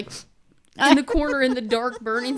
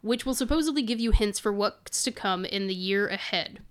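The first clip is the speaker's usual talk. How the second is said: choking on spit, pushing through. Real, not acted. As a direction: talk while choking on spit. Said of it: "choking on my spit".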